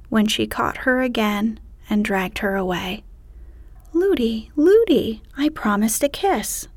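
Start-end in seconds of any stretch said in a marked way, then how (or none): 3.9-6.7 put-on rising childlike princess plea; pleading princess. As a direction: call to the nurse, higher each time. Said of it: "cried Irene".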